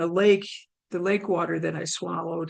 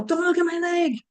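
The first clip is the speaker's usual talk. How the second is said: retold yell; 8 semitones higher than usual. Injured swimmer to arriving sister, high retold yell. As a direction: cry it out high, holding the volume back. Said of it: "and I yell".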